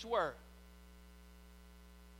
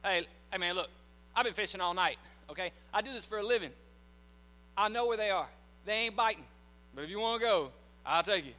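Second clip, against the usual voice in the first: annoyed Peter; 4 semitones lower than usual. Retold or imitated. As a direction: brush off the carpenter, mildly irritated. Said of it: "Look what Peter said".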